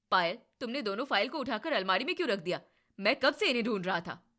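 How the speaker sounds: fast, loud irritated scolding; husband scolding his wife, fast and loud. Acted. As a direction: snap at his wife over the missing files. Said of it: "भाभी को क्यों डांट रहे हो".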